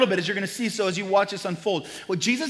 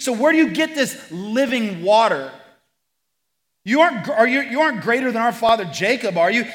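cynical woman; 4 semitones higher, 6 dB louder than usual. Retold or imitated. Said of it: "imagine a little bit of cynicism".

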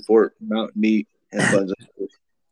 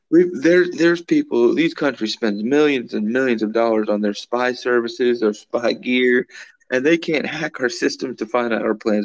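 mock Russian official; 3 semitones higher than usual. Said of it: "He's like".

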